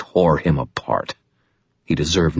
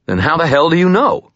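shouted, much higher and louder; furious demand; 12 semitones higher, 5 dB louder than usual. Acted. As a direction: yell the demand. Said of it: "I demanded".

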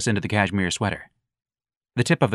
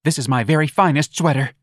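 put-on campy young man; 6 semitones higher, 4 dB louder than usual. Young man mocking the earring, high and campy.

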